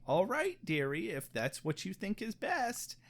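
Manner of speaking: put-on soft sweet old lady voice; elderly singsong. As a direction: play a gentle little old lady. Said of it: "sweet little old lady voice".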